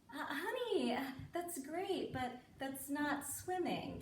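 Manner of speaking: slow, hesitant letdown; gentle correction. Retold or imitated. Mother correcting doggy-paddling daughter, slow and tactful. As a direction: break it to a child carefully, slowly.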